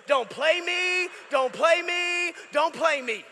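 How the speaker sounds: slow, drawn-out teasing warning; playful scolding. Acted. Preacher teasing the congregation, a slow mock warning. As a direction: call them out with a grin.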